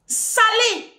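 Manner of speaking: Salé said high and loud, falling; stress on salé. Shown as a demonstration. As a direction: hit Salé hard. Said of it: "courrier salé".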